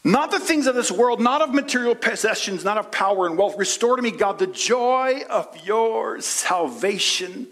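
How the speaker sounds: high, earnest plea to God; preacher voicing David asking for joy; David's prayer. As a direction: pray it with longing. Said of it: "He said".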